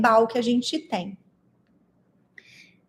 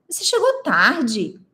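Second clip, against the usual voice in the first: slow, pointed delivery of the line; expressive demo; 2 semitones higher than usual. Shown as a demonstration. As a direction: say it as a plain remark, slowly. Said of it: "se eu falar assim".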